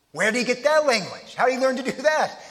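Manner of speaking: amazed, puzzled questioning; incredulous. Acted. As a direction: ask it as if baffled by a friend's sudden skill. Acted astonishment at friend's French.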